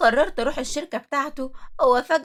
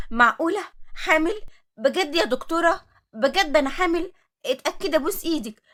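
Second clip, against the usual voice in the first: stunned disbelief; 4 semitones higher than usual. Acted. Stunned by pregnancy news.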